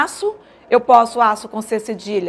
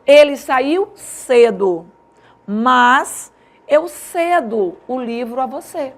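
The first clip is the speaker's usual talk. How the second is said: dictating example; 4 dB louder, much slower than usual. Shown as a demonstration. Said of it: "Se eu digo assim".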